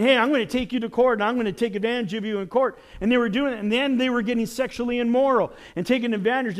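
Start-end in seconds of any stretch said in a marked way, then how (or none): 0.0-2.8 cocky threat. Retold or imitated. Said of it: "and saying".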